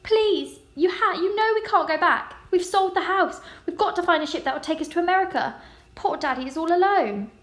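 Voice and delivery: high, loud pleading wail; desperate pleading. A narrator's reading. Girl begging her mother not to go back, high and loud. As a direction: beg her mother, near tears. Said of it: "she wailed".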